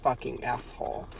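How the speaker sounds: soft, low voice for the top priest; quiet puppet voice. Acted. Bobber propositioning Laurent, voiced soft and low. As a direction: murmur it low as the dominant Bobber. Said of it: "And he says".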